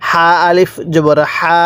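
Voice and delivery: হা said with a light puff of breath from the mouth; breathy ha. Shown as a demonstration. Teacher shows students how to breathe out on হা. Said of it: "মুখ দিয়ে হালকা বাতাস বের করবেন".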